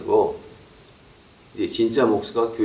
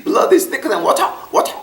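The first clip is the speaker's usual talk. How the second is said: high, slow "Blood is thicker than water" drawn out; drunk brother again; 3 dB louder, much slower than usual. Retold or imitated. Older brother repeating his English proverb, high and slow. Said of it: "그거 갖다 또 영어로 하시는 거야".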